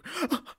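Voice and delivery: high, sudden intake; mock shocked gasp. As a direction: gasp sharply at a stage death. Acting clacker's reaction to death.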